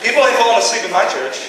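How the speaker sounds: mock fiery preacher; fired-up pastor. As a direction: preach it like you mean it.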